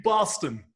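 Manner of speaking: Boston with the weight up front, BOS-ton; stress on first syllable. Shown as a demonstration. Coaching co-host to think of the model word, Boston stressed up front. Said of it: "The emphasis on the first syllable".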